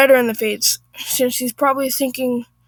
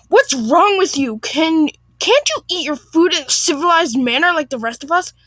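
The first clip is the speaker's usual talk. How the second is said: lightly voiced indignant woman, raised pitch; higher, affronted complaint; offended Karen; 4 semitones higher than usual. Narrator voices offended Karen confronting wife.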